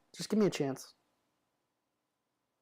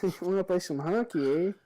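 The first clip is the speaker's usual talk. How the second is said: put-on Canadian accent. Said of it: "Canadian slash New Yorkian accent".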